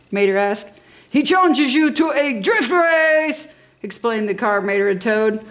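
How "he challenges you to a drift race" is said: higher, slower explaining voice; lightly voiced helpful car; other car's voice. A narrator's reading. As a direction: explain it politely.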